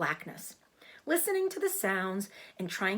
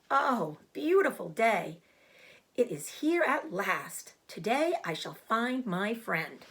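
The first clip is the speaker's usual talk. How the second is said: slow, delighted exclamation; joyful; 2 semitones higher, slower than usual. Acted. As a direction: savour the beautiful morning. Wilbur greets dawn happily.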